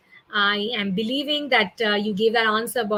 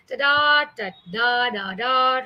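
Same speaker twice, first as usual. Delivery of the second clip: lively varied pitch; slower than usual. Shown as a demonstration. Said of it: "how humans speak is".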